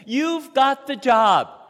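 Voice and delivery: high, loud burst of good news; a caller bursting with congratulations; excited. Acted. Excited good-news phone call.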